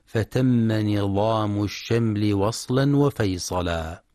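measured chanted recitation of a didactic poem; teacher reciting a classical tajweed poem; reciting classical verse. Shown as a demonstration. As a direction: recite the couplets evenly, line by line.

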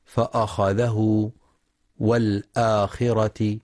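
فأخذه والآخرة with a thick, emphatic hamza; wrong heavy hamza. Shown as a demonstration. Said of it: "فلا يقرأ".

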